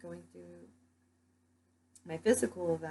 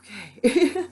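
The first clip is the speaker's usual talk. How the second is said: high, louder rising mock okay; louder high baffled okay; bemused okay; 6 semitones higher, 12 dB louder than usual. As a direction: shrug it off, baffled. Left staring at departing crowd.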